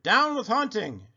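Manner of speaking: high hooted chant; storybook dinosaur hoot. A narrator's reading. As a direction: hoot it out like a little protest cry. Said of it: "For he hooted".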